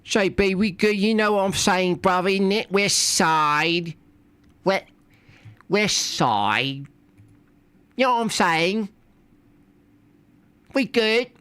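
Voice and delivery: high put-on bro voice. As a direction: play a chummy street bro.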